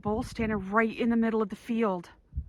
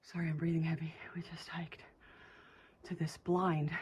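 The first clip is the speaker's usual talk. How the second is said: whispering; 7 dB quieter than usual. Real, not acted. Whispering inside wildlife blind.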